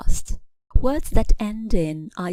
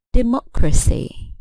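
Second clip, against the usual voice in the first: Democracy with the beat on MOC, pitched higher then falling; stress on second syllable; 4 semitones higher than usual. Shown as a demonstration. Teacher giving an example of the rule, stress on the MOC of Democracy. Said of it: "stress on the antepenultimate syllable".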